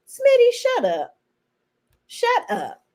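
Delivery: snapping shut up at the screen; shouted shut up. Real, not acted. Vlogger yelling at Smitty on screen, exasperated shout.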